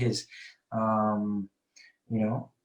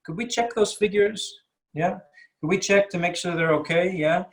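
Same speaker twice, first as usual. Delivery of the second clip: polite suggestion; 4 semitones higher than usual. Shown as a demonstration. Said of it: "a bit more polite".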